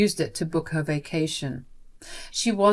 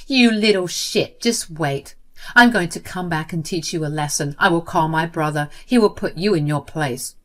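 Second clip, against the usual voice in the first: a touch of acted menace; threatening. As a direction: spit out the threat. Jenny threatens Luna.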